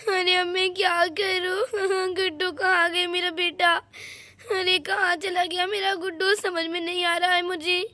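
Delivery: weep helplessly over the lost son; mother sobbing for her missing child; crying like a child. Acted. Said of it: "बच्चों की जैसे रो रही हो".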